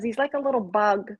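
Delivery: usual speaking voice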